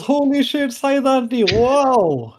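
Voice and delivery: high, loud, amazed shouting; astonished Mushfiq. Acted. Mushfiq gasping at the swordsman's feat. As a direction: gasp it out in total disbelief. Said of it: "And Mushfiq goes".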